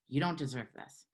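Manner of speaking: quiet inner voice. Retold or imitated. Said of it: "that voice that says".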